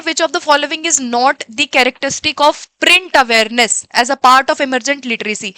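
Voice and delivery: slow, deliberate exam-question read; reading the question aloud. Acted. Teacher reading a test question to the class, slow and deliberate. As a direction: read it out slowly so students catch every word.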